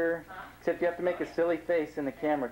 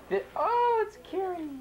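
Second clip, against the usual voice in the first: surprised; 12 semitones higher than usual. Real, not acted. Sudden recognition of a guest.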